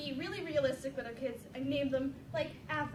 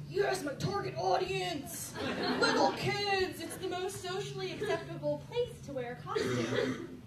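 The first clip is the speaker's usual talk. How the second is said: smug inner voice. Retold or imitated. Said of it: "me being me thinks".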